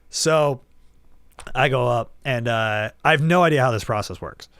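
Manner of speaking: ordinary talk, nothing marked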